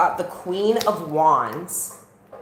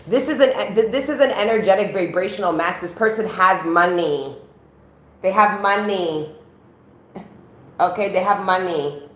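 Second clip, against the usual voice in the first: a light put-on Scarborough hood Chinese accent, a bit higher; 4 semitones higher, 4 dB louder than usual. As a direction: slips half-jokingly into a Chinese accent, pitched higher. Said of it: "Scarborough East Side Hood Chinese accent came out".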